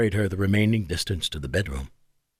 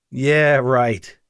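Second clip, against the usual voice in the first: laughing. A narrator's reading.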